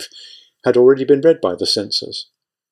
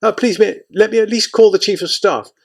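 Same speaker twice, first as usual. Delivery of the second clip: much higher, pleading in panic; desperate begging; 10 semitones higher than usual. Acted. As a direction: plead like a frightened subordinate. Aide begs desperately.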